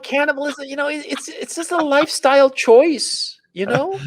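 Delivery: high, airy mock-reasonable voice. Mock-reasonable cannibal justification.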